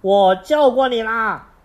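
loud, high indignant protest; angry child. Acted. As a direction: insist hotly.

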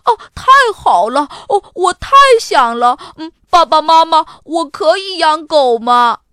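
put-on high, loud, eager child voice; thrilled boy. A narrator's reading. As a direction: beg your parents, bursting with joy. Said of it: "亚瑟拍着手说".

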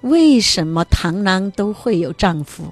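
lightly imitated child's puzzled question; questioning little daughter. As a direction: ask it like a small girl wanting an answer. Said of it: "就说女儿在问他".

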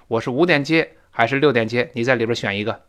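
matter-of-fact either-or offer. Shown as a demonstration. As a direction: state the two options without courtesy lift. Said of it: "没有这么客气的语气".

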